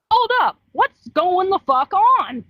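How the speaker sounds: high-pitched, incredulous acted outburst; mock bewildered protest. Imagined YouTuber reacting to a fan's accusations, mock bewilderment. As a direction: act out being baffled and put upon.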